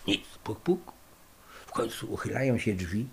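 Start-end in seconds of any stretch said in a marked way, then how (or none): 0.4-1.0 spoken knock-knock, a bit higher, voiced; imitated knock. Fugitives knocking again when nobody answers, spoken knock. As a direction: knock again a little firmer. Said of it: "knocking again, no answer".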